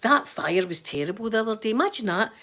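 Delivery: everyday Glasgow chat; rough Glasgow accent. Shown as a demonstration. Glaswegian showing how locals really sound, rough Glasgow accent. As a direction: talk like a rough-spoken Glaswegian. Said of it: "This is, this is us".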